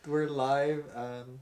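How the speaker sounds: Hannah Baker imitation. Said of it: "How did she say it?".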